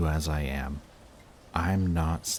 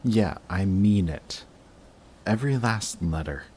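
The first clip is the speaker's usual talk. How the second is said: louder, higher earnest vow; earnest insistence; 4 semitones higher, 5 dB louder than usual. Acted. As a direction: insist that every word was meant. Insisting on the confession.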